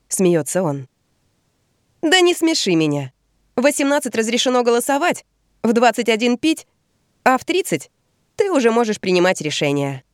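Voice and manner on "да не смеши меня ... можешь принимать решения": higher, teasing scoff; playful scoff. Acted. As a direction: laugh it off, teasing. Bea teases Henry.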